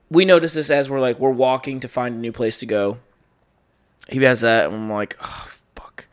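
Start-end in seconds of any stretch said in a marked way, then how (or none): 5.2-6.1 breathless whispered curse; a dismayed whisper on realizing the loss; whispered oh fuck. Retold or imitated. Realizing the phone's gone.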